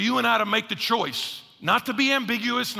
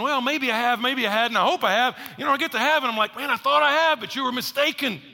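unsure hopeful believer; 4 semitones higher than usual. Retold or imitated. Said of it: "Don't roll the dice thinking".

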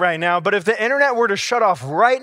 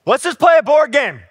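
chirpy daughter; 8 semitones higher, 7 dB louder than usual. Retold or imitated. Daughter voiced in story.

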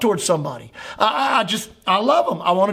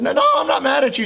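fast, raised protest that he isn't mad; 5 semitones higher, much faster than usual. Retold or imitated. Retold reply to friend.

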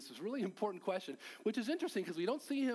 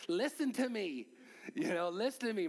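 put-on child pleading; 3 semitones higher than usual. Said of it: "Daddy, grabs your face".

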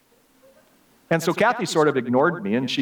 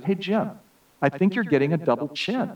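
higher teasing wife, lightly voiced; mild wife voice; 6 semitones higher than usual. Wife teasing her husband on a drive, a lightly higher voice. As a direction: tease him gently about his chin.

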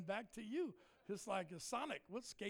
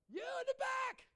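high-pitched preacher's shout; calling out; 4 dB louder than usual. Retold or imitated. Preacher singling out a kid in the back, high shout. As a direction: yell it to the back of the room.

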